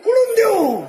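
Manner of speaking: very high, drawn-out comic cry; exasperated yell. Acted. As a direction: wail it back in mock exasperation. Exasperated father answers child's demand.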